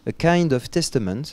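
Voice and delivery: put-on title said with an English accent. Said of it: "J'ai fait avec mon accent anglais comme je peux". (accent anglais)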